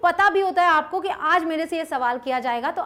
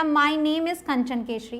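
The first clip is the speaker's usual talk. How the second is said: slow example; slower than usual. Shown as a demonstration. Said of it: "या".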